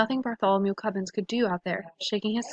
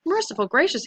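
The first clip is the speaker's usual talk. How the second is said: gulping in shock; 5 semitones higher, 4 dB louder than usual. A narrator's reading. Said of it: "he gulped".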